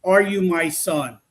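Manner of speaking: slow, spaced-out spirit question; imitated spirit voice. Investigator mimicking a ghostly recording, slow imitation. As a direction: draw each word out like a recorded ghost. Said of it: "Exactly how it said".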